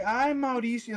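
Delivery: aunt fed up with her son; exasperated parent. Retold or imitated. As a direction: scold him with a tired sigh. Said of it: "And they're just like".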